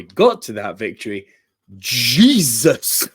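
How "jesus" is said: loud, stunned outburst breaking into laughter; laughing disbelief. Real, not acted. Fan recalling a wild match, laughing disbelief. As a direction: blurt it out, astonished and amused. Reacting to how match was won.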